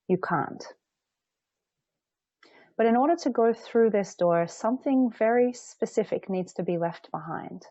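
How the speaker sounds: measured meditation guide with long pauses; unhurried phrases, room to breathe between; guided meditation. Acted. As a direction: lead them gently through the breath. Leads a guided visualisation.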